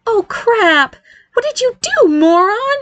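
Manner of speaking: very high alarmed accusation; accusing. Acted. Barry blames brother as name sticks, accusing. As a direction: accuse him in a panicky high pitch. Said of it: "he accused Nick".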